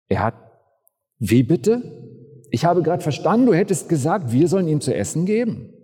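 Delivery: etwas lauter, hastig ungläubig; man traut seinen Ohren nicht; fassungslos. Acted. Kollege kann es nicht fassen. (Kollege reagiert entgeistert auf die Antwort)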